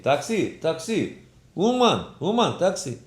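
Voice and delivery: high-pitched street hawker's call; taxi driver calling out. Acted. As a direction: call out for passengers. (אויסרופן ווי א טאקסי־דרייווער)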